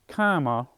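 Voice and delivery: "comma" with the stress on the first syllable; pronounced like "comma". Shown as a demonstration. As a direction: say "comma" as the model for the name, COM-ma. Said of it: "the way I say it".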